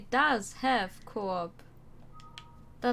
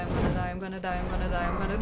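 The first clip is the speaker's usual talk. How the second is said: terrified gibbering; 3 semitones lower, 4 dB louder, much faster than usual. Real, not acted. Repeated panic, louder to shout.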